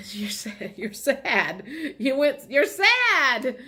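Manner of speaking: laughing, rising sing-song tease; teasing laugh. Real, not acted. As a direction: tease them playfully, laughing.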